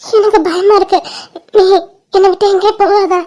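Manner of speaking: tearful pleading through sobs; cling to him, voice wet with tears; crying. Acted. Shaken girl begging her love not to leave, crying. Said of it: "ஏன் அழுதுட்டே இருக்க?".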